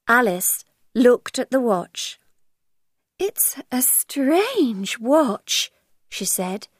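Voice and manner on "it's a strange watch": very slow puzzled musing. Acted. Alice muses.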